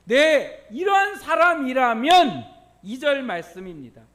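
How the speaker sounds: emphatic, high preaching burst; forceful preaching. Real, not acted. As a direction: seize the answer and proclaim it loudly. Preacher affirms answers, drives point.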